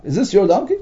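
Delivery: donkey lifted in a clear question rise; rising tune on donkey. Shown as a demonstration. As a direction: ask it, checking ownership. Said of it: "It's like a question mark".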